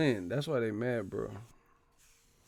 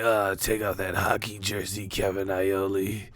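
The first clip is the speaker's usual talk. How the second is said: creepy fan; 2 semitones lower than usual. Retold or imitated. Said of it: "They're like".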